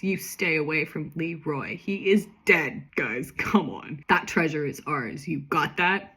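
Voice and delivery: a hint of a slow, menacing caller; deep modulated voice. Mystery caller warning a girl off the case, lightly disguised. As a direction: lightly play a disguised threatening voice. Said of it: "a deep, uh, voice".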